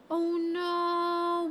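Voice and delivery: loud, high dismayed cry; sudden alarmed outburst; shocked oh no. Real, not acted. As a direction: gasp out the dismay. Realizes a twist in the story.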